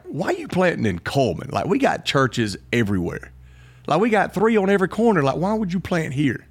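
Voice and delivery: lightly voiced puzzled townspeople; questioning locals. People asking why plant in Coleman, lightly voiced puzzlement. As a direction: retell their doubts, lifting the pitch at times. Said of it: "I had people asking me".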